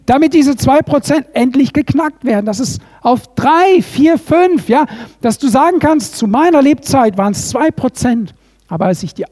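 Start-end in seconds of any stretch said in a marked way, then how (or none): 0.1-7.2 rising fervor. Real, not acted. Preacher building to climax.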